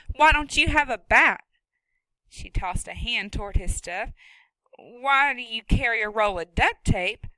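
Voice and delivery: loud, sharp no-nonsense woman; stern farm woman. Acted. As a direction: scold him from her own barn. Woman character voice.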